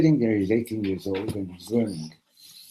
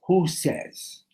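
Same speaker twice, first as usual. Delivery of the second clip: challenging; 9 semitones higher than usual. Acted. Hasid challenges the objection.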